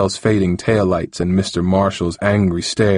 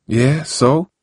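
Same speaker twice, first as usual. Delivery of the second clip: defensive; 7 semitones higher than usual. Acted. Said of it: "said Harold defensively".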